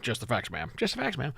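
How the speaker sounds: hint of a deadpan TV detective; Dragnet impersonation. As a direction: softly try out a Dragnet cop voice. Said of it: "I'm trying to do my best".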